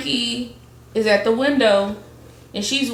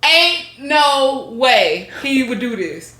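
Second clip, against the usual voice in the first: hopeful denial; 3 semitones higher, 4 dB louder, slower than usual. Retold or imitated. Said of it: "she like".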